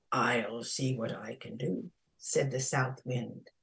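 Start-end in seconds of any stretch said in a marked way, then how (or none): 0.1-1.9 low, calm, reassuring voice; kindly. A narrator's reading. South Wind answering the frantic princess, low kindly voice. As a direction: reassure in a low, gentle register. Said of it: "kindly voice".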